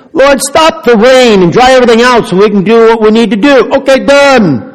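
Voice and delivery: a hint of a demanding believer; playful imagined prayer; mock petitioning prayer. Acting out a wished-for prayer.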